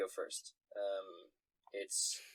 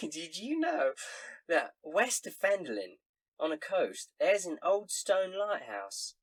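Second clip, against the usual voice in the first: higher, chatty barmaid; barmaid gossip voice; 4 semitones higher, 3 dB louder than usual. Acted. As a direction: spill a rumor like a barmaid. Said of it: "she says".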